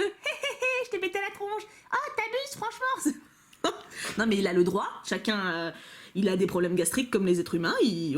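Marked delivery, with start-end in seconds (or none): 0.0-1.6 mock cheeky Pokémon. Voicing a farting Pokémon on card. 1.9-3.2 mock offended Pokémon. Voicing the other Pokémon complaining.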